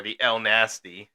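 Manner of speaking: Almasty said as "El Nasty"; Almasty turned into "el-NASS-tee". Retold or imitated. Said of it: "as I heard once before".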